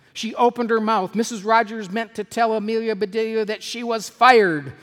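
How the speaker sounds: high, loud narration; dramatic angry build-up. A narrator's reading. Narrator tells of the furious employer, loud dramatic build-up. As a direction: drive the story hard toward the climax.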